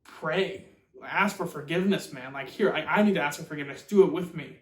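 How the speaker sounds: acted-out urgent appeal; urgent begging. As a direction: plead with a friend, building in force. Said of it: "and he begs Dorian".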